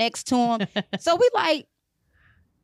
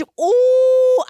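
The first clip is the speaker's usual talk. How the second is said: loud, high squeal of glee; gleeful high shout; excited ooh; 11 semitones higher, 7 dB louder than usual. Real, not acted. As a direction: savour the thought out loud. Relishing imagined revenge on woman.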